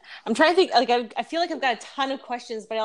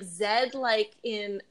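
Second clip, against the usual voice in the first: Canadian reading; much slower than usual. Retold or imitated. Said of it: "but also I'm Canadian".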